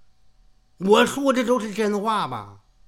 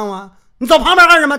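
usual speaking voice

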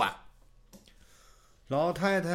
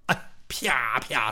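slap sounds; 6 semitones lower, much slower than usual. A narrator's reading. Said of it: "自己打自己俩嘴巴".

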